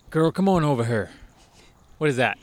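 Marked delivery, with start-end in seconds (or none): 0.1-1.1 put-on Southern accent. Co-host hamming up a Southern voice at the other. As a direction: call her over in a mild country twang. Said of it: "You sound like a Hodge twin when you say that".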